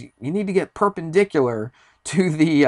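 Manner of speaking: mock yell. Ranger correcting a climber's position on the rope, mock yelling. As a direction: lightly mimic a shouted order. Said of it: "was even yelling math words at me".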